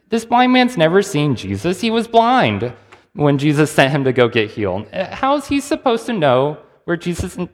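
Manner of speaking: high, heated, incredulous; exasperated disbelief. Real, not acted. Preacher to congregation, mocking the Pharisees' question, heated and high. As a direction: throw up your hands at the absurd question.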